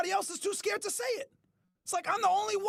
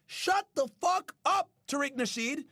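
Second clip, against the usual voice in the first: pretend telling off. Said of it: "come out and say".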